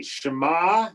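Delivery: clear, careful model word for the class to repeat; teacher leading a repeat-after-me recitation. Shown as a demonstration. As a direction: say Shema cleanly as a model. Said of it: "everyone repeat after me".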